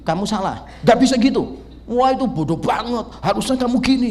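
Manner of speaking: a condescending jab; blunt declarative scolding. Retold or imitated. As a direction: play the know-it-all telling someone off. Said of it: "nggak bisa menyatakannya itu deklaratif".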